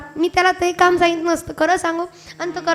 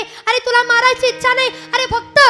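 marvelling admiration; 5 semitones higher than usual. Acted. Kumbhakarna marvelling at the fragrant monkey Gandhamadan, high and awed. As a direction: savour the fragrance with wonder.

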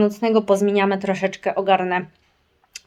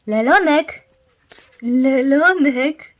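high, loud drawn-out name call; calling the dog; 6 semitones higher, 6 dB louder, much slower than usual. Real, not acted. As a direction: call the puppy over. (wołanie psa)

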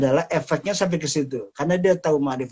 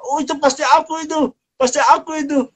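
much higher, louder eager outcry; eager claim; 13 semitones higher, 6 dB louder than usual. Acted. Sinner in hell eagerly cries out to the angel. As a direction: jump in, sure it's you they want.

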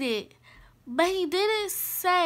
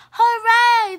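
high, loud class cheer; 7 semitones higher, 10 dB louder than usual. A narrator's reading. Class hearing cats don't chase mice, cheering. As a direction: let the hooray ring out, falling at the end. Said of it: "cheered the class".

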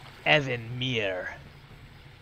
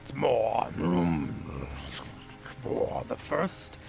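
put-on slow, whispery old tree creature; lightly voiced ancient Ent; much slower than usual. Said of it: "that's my Ent impression".

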